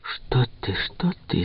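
soft, taken-aback protest; startled and embarrassed, hushed; flustered, frightened. A narrator's reading. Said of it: "смутилась, испугалась хозяйка". (смущённо и испуганно, тихо)

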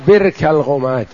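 برك said birk, i-vowel after the ba; kasra on برك. Shown as a demonstration. Teacher giving another reading of the place, برك with kasra. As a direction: say برك as "birk", not "bark". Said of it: "بفتح الباء وكسرها".

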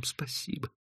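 barely audible whispered thanks; tiny, breath-only voice. Acted. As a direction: whisper it faintly. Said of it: "Она ответила шёпотом".

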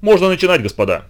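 loud hoarse command. Acted. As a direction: bark it out hoarsely. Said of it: "сказал громко и хрипло".

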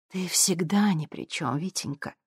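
quiet mocking echo of "ни при чём"; cold mockery. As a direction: lean on "всегда" with dry contempt. Victoria mocks his denial.

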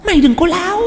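high, mocking ghost voice; arrogant ghost. A narrator's reading. Ghost in Tính scolds the priest, high and scornful. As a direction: sneer down at the priest.

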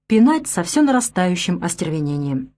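ordinary delivery

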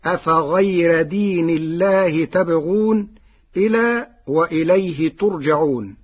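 تبغون and ترجعون with ta; with ta of address. Shown as a demonstration. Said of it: "هكذا". (بتاء الخطاب)

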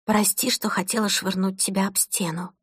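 inner thought. Acted. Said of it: "подумала она".

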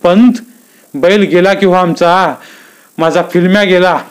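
a touch of a crazed lament; mild lament. Acted. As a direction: wail for Filmya, arms spread. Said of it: "हात पसरून म्हणाला".

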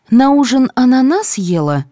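lightly voiced suspicious nurse. A narrator's reading. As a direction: sniff out what she ate. Nurse questioning patient.

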